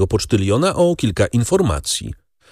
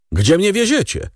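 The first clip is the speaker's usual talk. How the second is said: asking; 10 semitones higher than usual. A narrator's reading. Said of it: "spytał".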